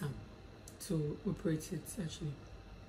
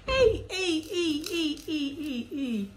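high, repeated shocked exclamations; much higher, laughing protest that tapers off; scandalised laughing; 10 semitones higher, 4 dB louder, much slower than usual. Real, not acted. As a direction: cry out in amused shock. Shocked by the rude question.

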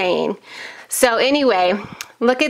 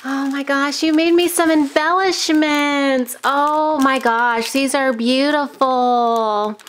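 delighted gush; 3 semitones higher than usual. Real, not acted. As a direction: gush over a surprise gift. Discovering handmade embellishments.

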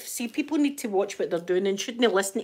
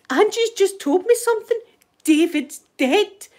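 mock hysterical; 10 semitones higher, 4 dB louder than usual. Housemate breaking news of a death to the others, mock hysterical. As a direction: play the distraught housemate, slowing right down on the news. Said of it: "screaming and all that".

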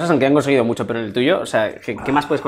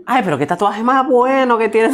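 high, slow gushing impression; Boris; 7 semitones higher than usual. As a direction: coo a drawn-out, admiring compliment in a high put-on voice. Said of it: "Intenta imitar a Boris". (imitación aguda y lenta, con admiración)

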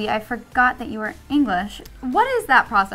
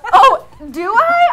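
laughing; 9 semitones higher, 11 dB louder, slower than usual. Real, not acted. Teased about crush.

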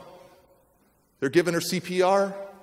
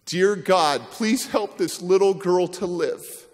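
pleading prayer; 3 semitones higher, slower than usual. Retold or imitated. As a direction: plead it out slowly to God. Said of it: "and says".

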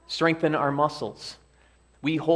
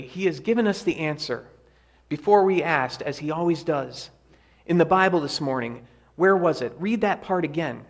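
higher, eager and quick; excitedly; 4 semitones higher, 5 dB louder than usual. Acted. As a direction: burst out with the good news. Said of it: "she says excitedly".

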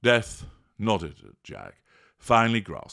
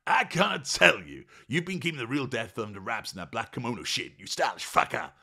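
laughing; 5 semitones higher than usual. Acted. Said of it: "laughed Jack".

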